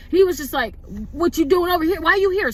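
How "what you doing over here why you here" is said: aggressive. Retold or imitated. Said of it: "he's approaching me aggressive".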